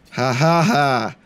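slow mock laugh. Mocking the groundskeeper.

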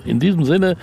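sing-song, high and loud catchphrase; catchphrase sign-off. Acted. The author signs off the interview with his pet phrase, sing-song and loud. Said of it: "wie ich immer sage".

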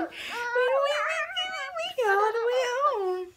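put-on playful piggy squeal for the baby, climbing high. Repeating piggy rhyme for baby.

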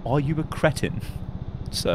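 haughty upper-class English; posh English accent. Pretend. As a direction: sneer it in a proper English accent. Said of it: "A posh person who's having some sort of brain issue".

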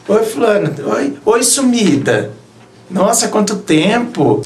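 slow, teasing pickup line; mock flirty guy. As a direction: drawl it like a player sliding back in. Mocking guy texting old fling.

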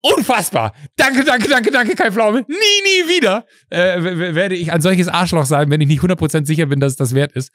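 high-pitched gushing thanks; hammed-up relief, voice shooting way up; overwhelmed gratitude. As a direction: gush it like a pardoned sinner. Acts out his overwhelmed relief, gratitude.

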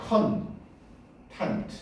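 content를 두 음절로 천천히 끊어서; content의 첫 모음은 '어'로, 나눠 발음; 또박또박 음절 나눠. Shown as a demonstration. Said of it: "어 발음이라고 그랬지". (content를 '컨-텐트'로 나눠서)

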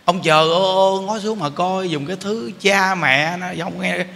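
imitated angry cursing; mock cursing. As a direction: curse the child at noon, hammed up. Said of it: "những người chửi con giờ trưa".

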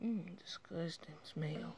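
slow breathy grossed-out whisper; whispered disgust. Real, not acted. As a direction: murmur it, repulsed.

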